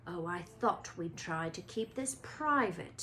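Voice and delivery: a lightly voiced chilly Snape; icy. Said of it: "his voice icy".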